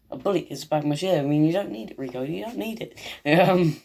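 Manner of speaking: amateur attempt at an American character's voice; Rico. Vlogger doing a poor impression of Rico, lightly acted. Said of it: "that's my impression of Rico".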